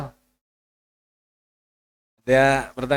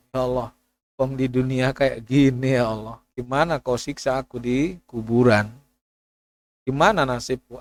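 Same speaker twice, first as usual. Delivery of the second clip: tafakur prayer. Retold or imitated. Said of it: "kalau tafakur gitu".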